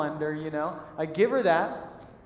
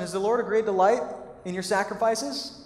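sarcastic question; 2 semitones higher than usual. Retold or imitated. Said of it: "a little sarcasm in his voice".

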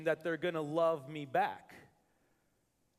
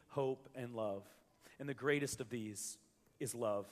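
scripture reading; 3 semitones lower than usual. Acted. Pastor reading Corinthians to the congregation, solemn and measured. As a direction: read it like a verse from the pulpit. Reads scripture passage aloud.

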